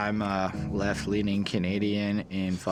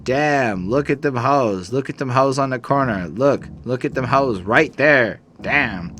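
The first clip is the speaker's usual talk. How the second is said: imitating a rapper; 3 semitones higher, 5 dB louder than usual. Voices a rapper in skit.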